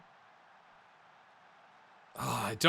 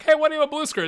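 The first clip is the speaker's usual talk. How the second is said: a light, higher coworker asking, lightly voiced; imitating a coworker; 13 semitones higher, 8 dB louder, much faster than usual. Teammates on a work call asking about the screen, lightly imitated. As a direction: play the puzzled colleague on a call. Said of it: "they're not like".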